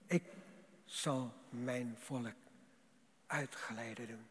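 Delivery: slow, soft solemn promise; slow, quiet, solemn voice of God. Acted. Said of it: "En wat zegt God?".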